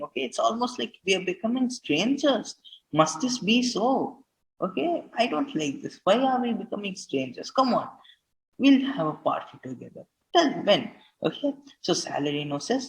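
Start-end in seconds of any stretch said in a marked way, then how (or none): 0.0-11.5 higher, eager inviting tone; lively paraphrase of Bassanio. Shown as a demonstration. Teacher voicing Bassanio to his friends, eager and lively. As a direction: coax old friends to a party.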